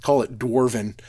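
a light made-up Dwarven brogue, half laughing. Real, not acted. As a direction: slip into his fantasy Dwarven brogue. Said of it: "pardon my terrible brogue".

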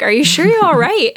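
put-on a fretting mom checking on her child; worried mother. Mother calling to her son in the river, worried. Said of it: "his mom's like".

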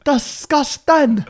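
slow, high drawn-out disgust; mock disgust. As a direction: drag the word out in fake horror.

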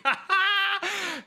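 high burst of laughter at own slip; real laugh. Real, not acted. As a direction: crack up at the flubbed names.

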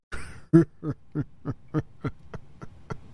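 sly snickering chuckle; sly nasal snickering whisper. Acted. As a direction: snicker slyly under your breath. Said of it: "Sorry, it's infectious".

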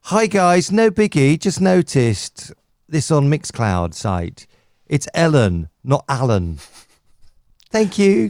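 gently correct, as an over-polite colleague would; polite, lovely. Retold or imitated. Co-host reading out Hope's correction, sweetly polite. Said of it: "She's so polite. She's so lovely".

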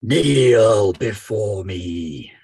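slow, low commanding villain; slow theatrical villain menace. Acted. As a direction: command them to kneel, drawn out. Cult leader commanding kneeling cultists.

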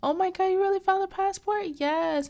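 very high, fast, loud squealing; giddy, breathless-paced mock celebration; excited group squeal. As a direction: imitate friends shrieking in delight. Group voiced celebrating the find.

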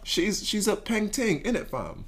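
slow put-on London roadman voice; slowly, playing a London roadman; British accent. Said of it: "I'm gonna try to use a British accent too".

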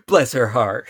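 loud mock Texan; Texan drawl. Co-host adds a Southern saying, loud Texan drawl. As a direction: bless her with a Texan twang. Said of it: "the Seanchan are Texas".

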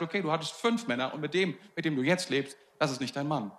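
soft, low prophetic insight; quiet, knowing tone for a retold prophecy; imitated prophetic word. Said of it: "spricht in sie hinein, prophetisch".

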